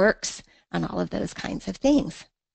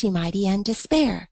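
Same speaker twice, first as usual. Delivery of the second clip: poem reading. Shown as a demonstration. Teacher reading the sestet so students find the turn. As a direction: build to the inscription's proud claim. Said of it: "Now listen, where's the break?".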